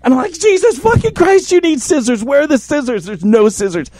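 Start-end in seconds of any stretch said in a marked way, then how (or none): 0.3-3.0 high, exasperated, stress on you; exasperated outburst. Retold or imitated. Teller snaps back at his partner, exasperated. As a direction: throw the question back in disbelief. Exasperated retort about scissors.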